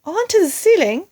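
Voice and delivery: high, loud disbelieving question; astonished cry. A narrator's reading. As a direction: gasp it out in disbelief. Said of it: "cried one of the small monkeys".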